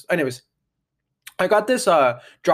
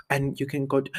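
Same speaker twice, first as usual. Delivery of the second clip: whisper; 5 dB quieter than usual. Pretend. Whispered ad aside.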